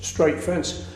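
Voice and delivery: understated, straight-faced joke telling; deadpan. Real, not acted. Beatle telling a pub joke about Jones, deadpan. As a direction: tell the whole joke evenly, giving nothing away. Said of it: "deliver this joke with absolute deadpan perfection".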